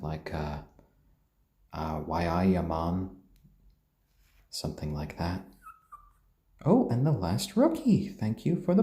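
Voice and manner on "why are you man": brief attempt at a Geordie accent. Shown as a demonstration. Streamer showing viewers his attempt at a Geordie accent. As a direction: try a bit of Geordie on the spot. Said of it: "try to do a bit of a Geordie accent".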